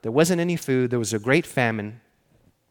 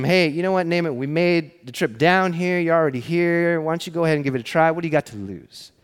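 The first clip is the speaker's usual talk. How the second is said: coaxing, pitched slightly up and quickening; lightly acted friendly persuasion; urging; 3 semitones higher than usual. Men urge their commander to try it, lightly acted coaxing. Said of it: "his men urged him".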